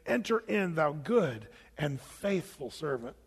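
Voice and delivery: a hint of a kind judge; God welcoming. God welcoming the believer at the throne, slowly and kindly. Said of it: "God will look at you and say".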